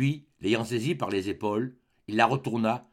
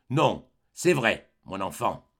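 forced courage; 3 semitones lower, slower than usual. Acted. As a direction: force out the truth slowly. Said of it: "avec un de ces efforts de courage". (aveu lent et pénible)

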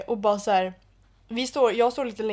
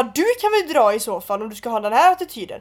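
louder, indignant send-off; retold angry dismissal; 5 dB louder than usual. Retelling how she told the guy to leave, angry dismissal. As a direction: tell him off, reenacted. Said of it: "så blev jag så jävla förbannad".

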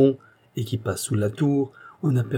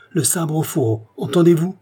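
higher-pitched imperious order; stern command; 7 semitones higher, 4 dB louder than usual. A narrator's reading. Queen orders Isidore to sheathe his sword, commanding. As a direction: demand obedience, louder on the question. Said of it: "dit la reine".

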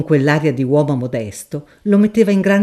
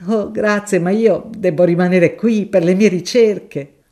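higher, polite flustered scholar; a shy professor refusing a kindness; higher, polite, a touch flustered; mild professor; 3 semitones higher, 4 dB louder than usual. Acted. Professor declines.

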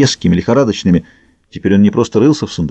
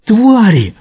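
much higher, louder enraged shout; furious yell; 11 semitones higher, 4 dB louder than usual. Acted. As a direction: scream the insult with rage. Brawl, Victor yelling at diggers.

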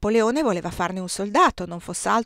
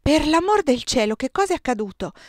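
alarmed shout, high and loud; 7 semitones higher, 7 dB louder than usual. A narrator's reading. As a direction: cry out in alarm. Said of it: "gridarono insieme". (gridato, allarmato e acuto)

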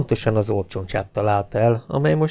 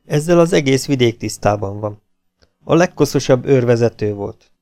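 a hint of a chummy officer, a bit louder; falsely friendly captain; 3 semitones higher, 4 dB louder than usual. Captain coaxing the prisoner after hitting him, mock-friendly. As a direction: win him over with fake warmth.

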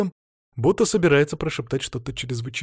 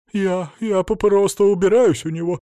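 higher, stammering frightened voice; trembling squeak; 7 semitones higher, 5 dB louder than usual. Acted. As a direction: squeak it out scared. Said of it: "дрожащим голосом запищала".

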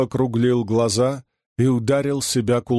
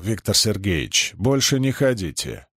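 ordinary delivery

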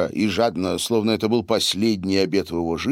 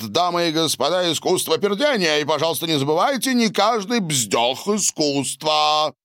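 announcing; 7 semitones higher than usual. A narrator's reading. Translation of Donald's announcement.

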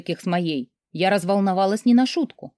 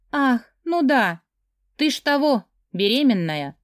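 tipsy mocking friend; 5 semitones higher than usual. Drunk friend mocks pregnancy.

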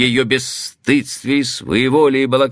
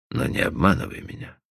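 softer, unvoiced whisper; whispered plea; 3 semitones lower, 7 dB quieter, faster than usual. Cowperwood whispers to Stephanie not to deceive him. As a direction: breathe the plea barely aloud. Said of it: "repeated plea".

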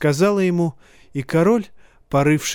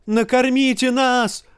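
desperate shout; 10 semitones higher than usual. A narrator's reading. Hungry woman cries to the king for food, very high. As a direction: cry out for food. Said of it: "крикнула женщина".

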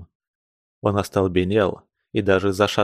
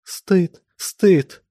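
higher abrupt cries of shame; 8 semitones higher than usual. Acted. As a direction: cry it out in short bursts. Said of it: "отрывисто вскрикивала она".

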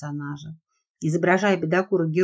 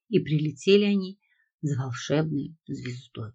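epic fantasy narrator. A narrator's reading. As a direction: tell it like an ancient legend. Reading his fairy tale aloud.

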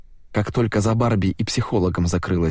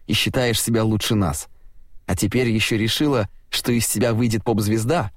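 sneering mockery; 2 semitones higher than usual. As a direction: belittle her with contempt. Uffe mocks Tina.

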